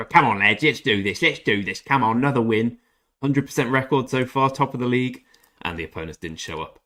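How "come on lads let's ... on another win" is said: louder pumped-up rally call to the lads; imitating a pre-match rally, louder; hyped team rally. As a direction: gee up the team before kickoff. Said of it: "We all got G'd up".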